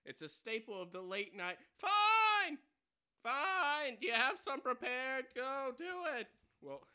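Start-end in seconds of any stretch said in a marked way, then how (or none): 1.8-6.3 loud, high snapped orders; impatient shouting. Acted. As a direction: bark to hurry him. Robber impatient.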